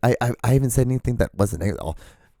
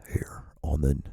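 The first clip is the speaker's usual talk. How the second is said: trailer voice; 4 semitones lower, 7 dB quieter than usual. Pretend. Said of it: "could just get a little deeper".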